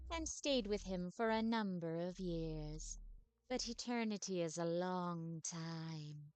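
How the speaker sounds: slow, soft, mournful undead lady; wistful ghostly vampire telling her sad past. Acted. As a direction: sigh it out like a weary centuries-old vampire. Voices the vampire ghost Agatha.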